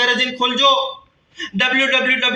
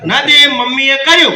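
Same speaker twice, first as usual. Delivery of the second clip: sheepish confession; 6 dB louder than usual. Retold or imitated. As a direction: own up haltingly with the head hung. Head down, holding the mic.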